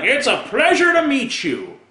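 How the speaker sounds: high-pitched fake delight; mock gushing greeting. Comic imitating people at introductions, mock gushing. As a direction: parody an overly pleased greeter. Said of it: "these people who say".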